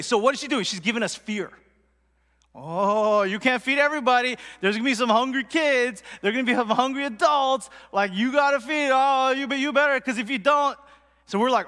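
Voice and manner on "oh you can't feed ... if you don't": hammed-up fearmongering, slightly raised and insistent; mock alarm. Rice cake seller pressuring a customer to buy more, mock alarm. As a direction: pile on the worry, mock-alarmed. Imitates lady stirring up fear.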